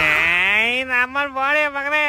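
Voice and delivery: slow, whiny curse like a hurt beggar; hammed-up tearful swearing; mock crying. Beggar refused money, cursing in mock tears. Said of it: "ಯಾಕೆ ಅಳ್ತಾ ಇದ್ಯಾ".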